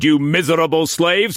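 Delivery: high, loud rising insult; raging insult to servants. A narrator's reading. Struan berating the servants, raging insult. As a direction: fling slaves at them.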